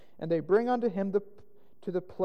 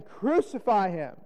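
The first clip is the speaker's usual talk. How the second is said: slow, drawn-out call for condemnation; crowd's cry; 3 semitones higher, 4 dB louder, slower than usual. A narrator's reading. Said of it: "they cried out again".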